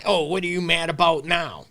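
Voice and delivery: exasperated, belittling "Oh, what are you mad about now?" with a weary sigh in it; annoyed, defensive partner brushing off their feelings; dismissive. Shown as a demonstration. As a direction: roll your eyes at a partner's anger.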